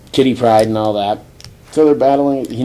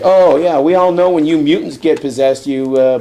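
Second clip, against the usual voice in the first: louder, higher mocking comeback; sarcastic retort; 4 semitones higher, 4 dB louder than usual. Spider-Man answers the possession charge, sarcastic retort. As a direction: throw it back at them, easing off.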